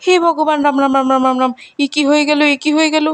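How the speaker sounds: high, horrified exclamations; as if struck by a scandal, rising in panic; shocked gasp. Acted. Champa discovering Minu beside Raj, shocked. Champa finds the couple in bed.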